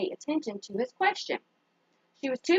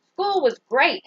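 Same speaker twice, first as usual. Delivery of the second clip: put-on bright, louder child's answer; excited child; 4 semitones higher, 5 dB louder, slower than usual. Kenya telling her dad about school, excited. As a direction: burst out happy to dad.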